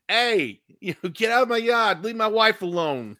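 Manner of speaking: lightly lampoon a cranky Boston neighbor; mock Boston tough guy.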